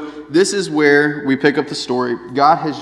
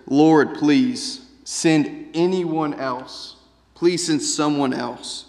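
slow pleading; much slower than usual. Retold or imitated. Moses begging God.

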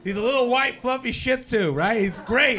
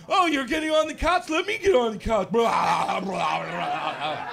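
big dog voiced. Saint Bernard begging for the couch, lightly voiced and eager. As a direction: play the huge dog copying the small one. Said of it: "And she's like".

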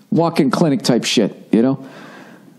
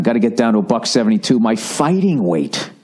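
Bob Pogo line. Retold or imitated. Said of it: "as Bob Pogo says".

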